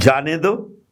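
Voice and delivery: "जाने दो" set apart with a rise on दो; separated second clause. Shown as a demonstration. Teacher finishing the second reading, जाने दो split off after a pause. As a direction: say जाने दो as its own phrase. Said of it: "सिर्फ कौमे को आपने आगे सरकाया".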